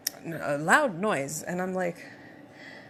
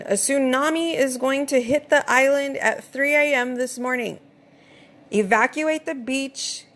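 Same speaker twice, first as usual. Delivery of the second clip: higher, mock emergency loudspeaker call; bullhorn announcement; 6 semitones higher than usual. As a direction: imitate a bullhorn warning from the street. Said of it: "that's a bullhorn".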